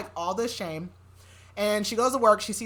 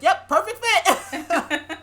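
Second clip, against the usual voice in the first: slow, higher, laughing through it; laughing mock approval; 10 semitones higher, 8 dB louder, much slower than usual. Trying on the boyfriend's jersey, slow laughing mock approval. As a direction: drag it out while cracking up. Jersey too big, joking.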